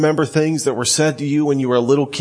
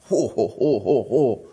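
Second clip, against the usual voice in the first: mock-awed ho ho. Real, not acted. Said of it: "Talk about emphatic language".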